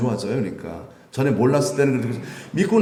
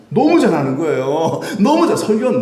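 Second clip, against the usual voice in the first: high, louder laughing exclamation; amused laughing praise; 7 semitones higher, 6 dB louder than usual. Real, not acted. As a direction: laugh while marvelling. Laughing about Apollos' preaching.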